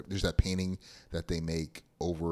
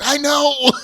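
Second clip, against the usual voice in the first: tiny squeaky dog voice, much higher and louder; big dog squeaking like a Chihuahua; high yappy little-dog voice; 14 dB louder than usual. Retold or imitated. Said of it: "the Doberman sounds like a Chihuahua".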